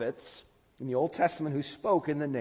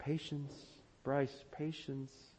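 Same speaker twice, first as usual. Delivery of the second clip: self-calming murmur. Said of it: "you're telling yourself".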